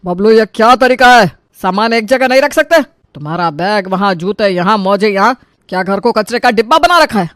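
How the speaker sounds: mildly angry, indignant questioning; angry scolding. Acted. Grandfather scolding grandson over scattered things, angry scolding. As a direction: tell off a messy child crossly. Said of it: "तुरंत गुस्से में उठ खड़े हुए".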